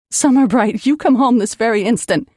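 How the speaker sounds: sharp, loud parental command; yelling. Acted. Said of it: "Mom yelled into the receiver".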